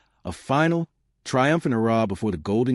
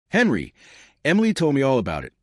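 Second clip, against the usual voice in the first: higher, louder, quick and cheerful; a friend bubbling over with eagerness; cheerful chirp; 4 semitones higher, 3 dB louder than usual. Acted. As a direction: chirp the news down the phone. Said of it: "Sarah's cheerful voice chirped on the phone".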